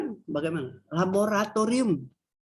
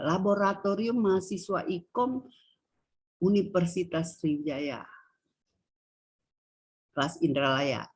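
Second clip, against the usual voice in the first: phrase with no sentence tune, paused between chunks; no intonation. Shown as a demonstration. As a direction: read "Laboratorium Mahasiswa Ikom Universitas Sriwijaya Kelas Indralaya" as a bare label, in separate chunks. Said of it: "Itu tidak ada intonasi".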